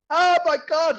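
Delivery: high, loud burst of disbelief; a stunned, thrilled "oh my God"; retold amazed gasp. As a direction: relive the jackpot shock, pitch shooting up. Winning big while high.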